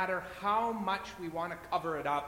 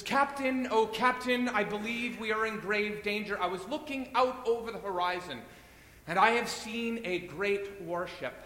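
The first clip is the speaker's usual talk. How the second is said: alarmed first mate; 6 semitones higher, 7 dB louder than usual. Acted. First mate runs to warn captain.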